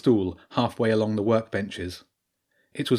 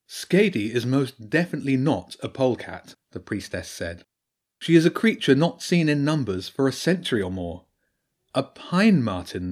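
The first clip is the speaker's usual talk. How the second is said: badger priestess voice; 4 semitones higher than usual. Priestess explains the Long Man to Jenny, grave and raised. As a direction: speak as the learned priestess warning of an old evil.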